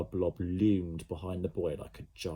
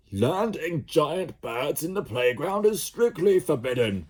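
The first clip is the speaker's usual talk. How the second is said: higher, slow, furious pronouncement; raging headmaster; 8 semitones higher, 6 dB louder, slower than usual. Acted. Mister Raff storming at Ned, raging. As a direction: bellow the rule with outrage. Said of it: "he raged at Ned".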